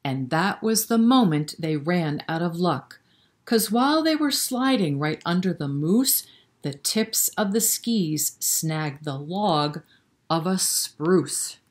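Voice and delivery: sing-song rhyming storybook read; lilting bedtime-story narration; reading to children. A narrator's reading. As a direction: read the rhyme aloud to little kids. Reads a rhyming picture book.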